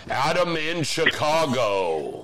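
slow dramatic title read; movie trailer voice. Pretend. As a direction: announce it like a porn title. Movie title announcer bit.

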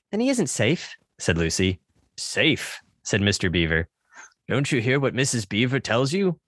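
lively read-aloud with voiced characters; story narration. Reads Narnia passage.

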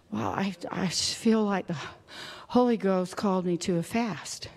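low, soft, hesitant near-whisper; hushed humble answer. Acted. Believer explaining a fast to a doubter, hushed and hesitant. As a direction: answer quietly, feeling for the words.

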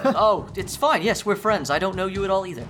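high, meek voice holding back a laugh; timid agreement. Acted. Confused John answers again.

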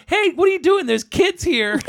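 high-pitched mock yell; retold scream. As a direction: imitate an outraged man shouting at someone. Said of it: "he's screaming at the other realtor".

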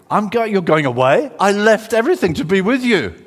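loud, indignant disbelief; shocked protest. Acted. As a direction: act out a disciple feeling abandoned. Simon Peter protests being left.

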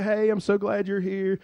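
mock-friendly church welcome; welcoming greeter. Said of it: "open the door for you and say".

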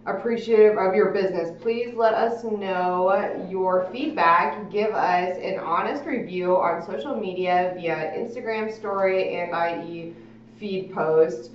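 reading note aloud. Acted. Reads handwritten note aloud.

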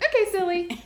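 put-on high, loud playful child; mock-sweet little girl voice. Imitating the cheerful little girl.

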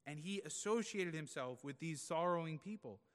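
loud, rising, impassioned preaching; full preaching force. Acted. Preacher building to a climax before the congregation, loud. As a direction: drive the point home to the congregation.

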